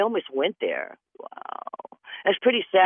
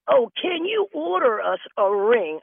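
mock scammer; 8 semitones higher than usual. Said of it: "I like this one".

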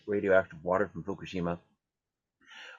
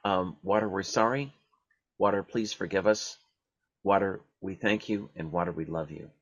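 prayer recitation. Acted. Leading listeners in the water prayer, calm recitation. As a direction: lead the group through the prayer one line at a time. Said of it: "Let's do this twice more".

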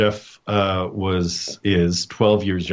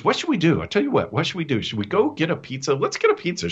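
high, bouncy little-brother pitch; eager cheer-up; 8 semitones higher, faster than usual. Retold or imitated. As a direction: pitch pizza like a keen kid. Brother eagerly tries cheering him up.

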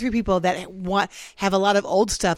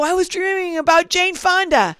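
dreamy sleepy; 9 semitones higher than usual. Retold or imitated. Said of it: "I go".

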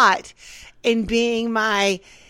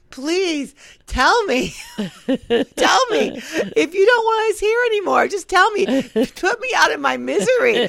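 higher, tearful plea; tearful retold plea, higher pitched; pleading sob; 5 semitones higher than usual. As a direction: beg as if crying. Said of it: "As you sob".

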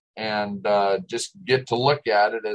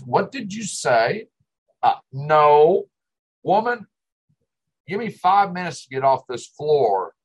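mock indignant retort; 6 semitones higher, 3 dB louder than usual. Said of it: "I said".

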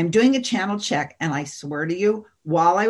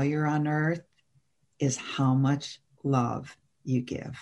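solemn being of light; 2 semitones lower than usual. Retold or imitated. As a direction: deliver a gentle cosmic truth slowly.

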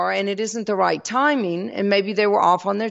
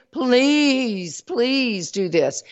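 begging; 4 semitones higher, much slower than usual. Shown as a demonstration. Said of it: "You don't beg".

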